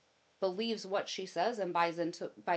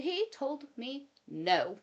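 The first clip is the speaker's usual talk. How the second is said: higher, slow aggrieved reveal; mock scandalized; 6 semitones higher, slower than usual. Wife revealing to mom the cuss word was no, mock grievance. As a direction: deliver the outrage deadpan-huge.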